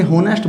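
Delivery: "होनेस्ट" with the H pronounced; wrong H sounded. Shown as a demonstration. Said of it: "तो गलत हो जाएगा ये". ("होनेस्ट" में ह का उच्चारण)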